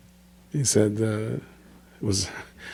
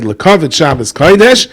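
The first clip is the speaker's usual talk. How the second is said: put-on proud child; 4 semitones higher, 4 dB louder than usual. Child gives away his dessert.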